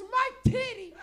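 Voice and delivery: shrill mock scream of panic; wound-up mother. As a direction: imitate a frantic mom, very high and loud. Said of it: "she was so wound up".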